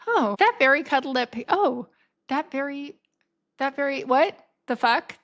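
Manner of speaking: halting, false starts in mock shock; stunned disbelief. Learning the woman is his mom, stammering disbelief. Stunned retelling of screensaver discovery.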